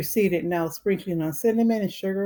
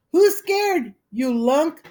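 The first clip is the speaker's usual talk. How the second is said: much higher, louder retort; indignant call; 10 semitones higher, 5 dB louder, slower than usual. Acted. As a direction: shout back defensively. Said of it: "called Alan".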